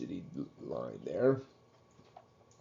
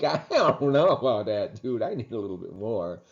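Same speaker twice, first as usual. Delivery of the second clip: mock greedy American; 3 dB louder than usual. Lecturer voicing an American diner wanting more, mock greedy. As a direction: play a diner brushing off a tiny portion. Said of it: "And you're like".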